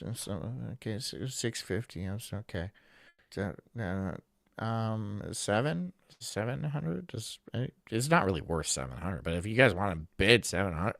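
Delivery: quiet, sluggish auctioneer; bored auctioneer impression. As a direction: drone through the bids half-asleep. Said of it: "That was my impression".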